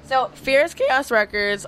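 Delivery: slow, with a cracking voice. Real, not acted. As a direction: voice cracks mid-phrase. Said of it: "my voice cracked".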